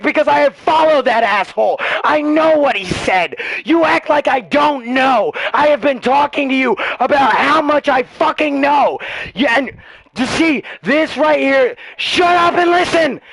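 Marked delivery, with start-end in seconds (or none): 3.6-9.0 real furious outburst; angry yell. Real, not acted. Telling the kid he knows, angry yell. Heated political argument, yelling. 12.0-13.2 higher, shouting him down; real anger, cut him off; furious shout. Real, not acted. Silencing the fifteen-year-old, furious shout. Heated political argument, yelling.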